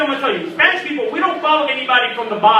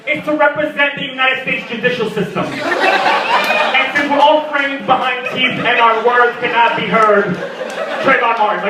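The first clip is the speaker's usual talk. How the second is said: mock solemn hipster; slower than usual. Mock pompous hipster answer.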